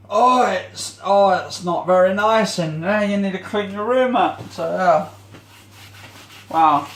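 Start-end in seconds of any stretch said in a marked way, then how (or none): 0.1-4.4 nagging visitor. Retold or imitated. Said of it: "I had someone say".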